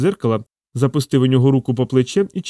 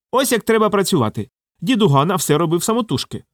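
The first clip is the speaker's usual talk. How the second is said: a lightly raised, self-important bureaucrat voice; pompous official; 7 semitones higher than usual. Acted. Lightly voiced pompous manager praising the old machine. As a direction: puff up like a proud administrator. Modest boasts about the machine.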